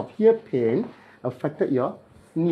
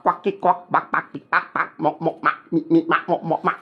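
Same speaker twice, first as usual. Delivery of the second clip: imitated cracking noises; 3 semitones higher than usual. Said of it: "You hear the sound of quack".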